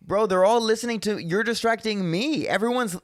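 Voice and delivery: high-pitched, incredulous scolding; retold exasperation. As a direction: plead with a heckler to get it. Retold scolding of the distracting heckler.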